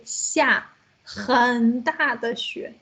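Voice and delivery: slow, drawn-out teacher demonstration; stretched out for learners; slow modelling. Shown as a demonstration. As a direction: model the phrase word by word. Teacher models phrase word by word.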